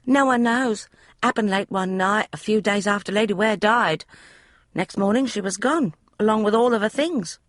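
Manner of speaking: put-on high, eager young maid's voice; a chatty servant girl, pitched high; maid Polly. Maid Polly explaining the room to Emma, high eager voice.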